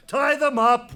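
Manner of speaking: loud command to guards; barked order. Acted. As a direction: snap the order out. King giving orders.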